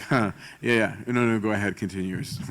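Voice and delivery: a dry little huh, then a dismissive go ahead; sarcastic chuckle. Retold or imitated. Teacher mimicking a servant who scoffs when a name comes up, sarcastic chuckle. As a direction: brush them off with a sarcastic chuckle. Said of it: "Do you chuckle a lot sarcastically".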